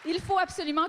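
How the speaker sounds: can't wait to tell it; excited. Real, not acted. Host bursts to tell story.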